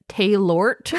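"Taylort" said as tay-LORT; giggly made-up reading of "Taylort"; deliberate mispronunciation. Shown as a demonstration. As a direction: say "Taylort" the wrong way, as read in your head. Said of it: "that is probably not how you pronounce it".

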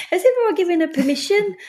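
real chuckle breaking into the words; light laughing. Real, not acted. Recalling giving a mother permission to laugh, laughing.

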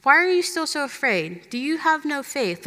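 gentle asking. Retold or imitated. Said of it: "asked them".

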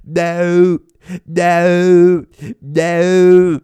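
high, loud yowling no's; his cat in heat yowling, high and loud. Retold or imitated. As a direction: yowl each no like a cat in heat. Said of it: "whenever she goes in heat and she's like".

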